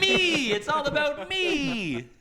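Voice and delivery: mock self-centred.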